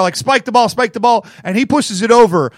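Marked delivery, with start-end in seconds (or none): 0.2-1.2 retold excited fan urging a player on; louder, higher urging, replayed in the retelling; freaking-out fan. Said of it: "I'm all freaking out".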